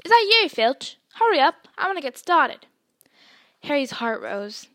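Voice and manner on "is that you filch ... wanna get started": loud booming call from afar; big hearty shout; distant shout. A narrator's reading. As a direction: yell it out across the dark grounds. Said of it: "They heard a distant shout".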